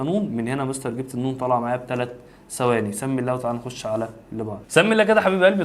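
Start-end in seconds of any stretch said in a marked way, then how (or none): 4.7-5.6 louder, higher, beaming encouragement; cheerful praise. Real, not acted. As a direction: cheer the student on like a proud teacher. Teacher cheers the class on.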